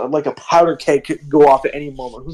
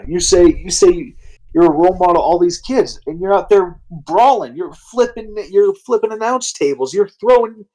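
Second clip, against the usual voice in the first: scolding, pitched up, building; scolding rant; 2 semitones higher than usual. Retold or imitated. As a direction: scold them like a fed-up boss. Stone Cold scolding wrestlers.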